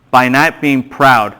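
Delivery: slow, spelled-out dictation pace repeated. Shown as a demonstration. Pastor repeating the note for the class, slow. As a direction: give it again slowly for the note-takers. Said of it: "just write this down".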